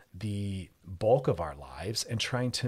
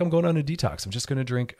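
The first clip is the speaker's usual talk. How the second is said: higher, louder West Coast stereotype voice; 5 semitones higher, 5 dB louder than usual. Acted. Host imitating people who announce a detox, mock West Coast voice. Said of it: "there I am doing the voice again".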